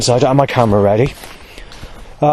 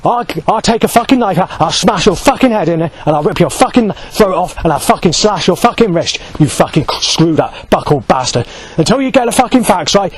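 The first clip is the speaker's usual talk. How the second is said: raised, heated threat, higher; retold shouting back; 4 semitones higher than usual. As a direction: shout it back at him, worked up. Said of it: "So I shouted back".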